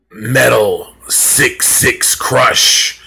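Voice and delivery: slow, drawn-out spooky record voice; eerie backwards record. Retold or imitated. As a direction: drag each word out like a warped record. Record plays hidden backwards message.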